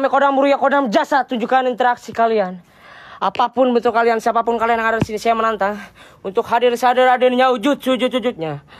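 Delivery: declaimed, chant-like summons in a steady run; spirit-summoning challenge. Acted. Ghost hunter daring spirits to appear, summoning challenge. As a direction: challenge the spirits to show themselves, formally.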